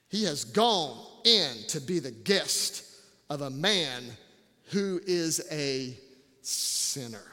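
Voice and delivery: low, soft grumbling quote; grumbling crowd. Retold or imitated. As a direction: complain like the muttering crowd.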